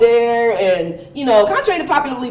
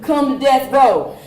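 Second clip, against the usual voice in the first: laughing; slower than usual. Real, not acted. Quoting Suge Knight, laughing.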